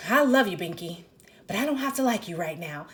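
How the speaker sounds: a touch of irritation in "I love you, Binky"; woman to her boyfriend, fond but a little annoyed; mildly irritated. Retold or imitated. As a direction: say it with slight annoyance, still fond. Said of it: "kinda irritated and she's like".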